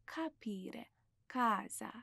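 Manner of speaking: کاپیره and کازا with a hard k from the back; throaty Italian k. Shown as a demonstration. Teacher showing Italian pronunciation, throaty k in کاپیره، کازا. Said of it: "باید یه خورده حلقی".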